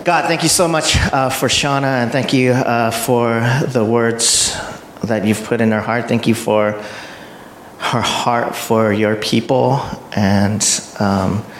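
measured prayer with long pauses between phrases; spoken prayer. Real, not acted. Host praying aloud for the speaker, spoken prayer. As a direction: start lifted, then settle into unhurried, reverent prayer.

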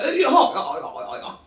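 slow, high, laughing drawl; drawn-out flirty compliment; posh guy flirting. Retold or imitated. Posh audience member flirting with her, slow and high. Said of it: "He was like".

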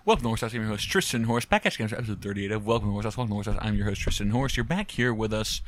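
upbeat show host welcome; podcast host intro. Acted. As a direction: announce it like a host.

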